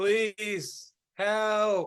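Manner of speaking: somewhat robotic, high mechanical voice, drawn out. Narrator voices what the players hear, in a somewhat mechanical voice. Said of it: "a somewhat mechanical sounding voice say".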